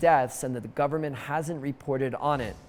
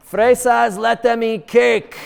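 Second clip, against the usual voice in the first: mock haughty; 7 semitones higher, 10 dB louder, slower than usual. Mocking rich premium buyers.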